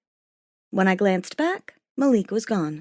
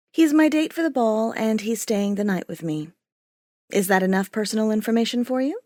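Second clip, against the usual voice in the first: snapped. Acted. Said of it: "I snapped".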